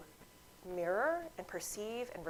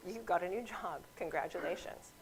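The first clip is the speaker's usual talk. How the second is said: sincere reflection; 4 dB quieter than usual. Shown as a demonstration. Friend reflecting the news back, sincere and calm. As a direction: say it back simply and kindly. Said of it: "simply reflecting back".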